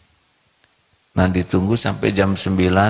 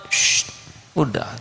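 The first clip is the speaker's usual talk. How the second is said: soft unvoiced shush; hushing; 6 semitones higher, 4 dB quieter than usual. Mother hushes her son in the car, soft shush. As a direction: hush the child gently.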